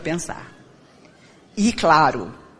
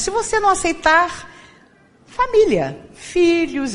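solemn warning; 10 semitones higher than usual. Retold or imitated. Spirit guide warns Chico.

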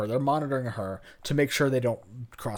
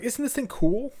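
much higher, thrilled about the new phone; excited; 10 semitones higher than usual. Retold or imitated. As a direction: show off the gadget like a giddy girl. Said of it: "And she's like".

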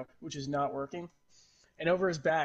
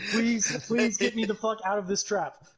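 higher, louder plea from a snared fox; pleading trapped fox; 5 semitones higher, 4 dB louder than usual. Acted. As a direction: beg to be let out, playing it for laughs. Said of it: "It goes".

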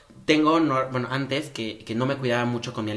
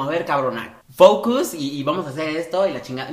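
mock tough love; 4 dB louder than usual. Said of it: "le das unas pinches cachetadas y es como".

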